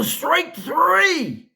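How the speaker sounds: high, loud umpire call; umpire shout. Retold or imitated. Umpire calling strike three on a kid, loud high shout. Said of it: "He would scream it".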